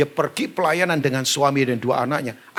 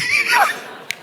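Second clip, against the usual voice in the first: high laugh. Real, not acted. Speaker laughs after his punchline.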